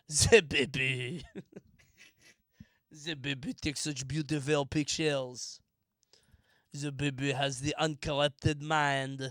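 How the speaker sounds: put-on French accent. Speaker voicing a character praising the baby's pictures, in a French accent. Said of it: "I love doing the French accent".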